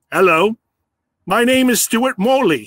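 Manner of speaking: lightly put-on vague foreign accent, part South African, part Australian; a hint of an unplaceable foreign accent, introducing himself at the bar; Stuart Morley's foreign accent. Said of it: "Sorry for the accent there".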